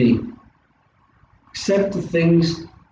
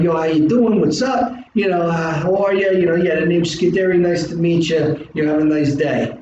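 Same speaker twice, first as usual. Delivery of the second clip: casual South Philly gangster swagger; laid-back South Philly street greeting; South Philly accent. Pretend. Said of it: "throw the South Philly swag on".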